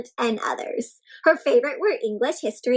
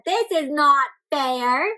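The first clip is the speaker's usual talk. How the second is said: mock protest; 2 semitones higher, slower than usual. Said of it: "She said".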